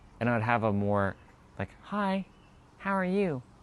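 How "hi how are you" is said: light, very high-pitched voice. Showing how the speaker's voice sounded three years ago: lighter, higher voice. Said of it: "Have a have a more lighter voice".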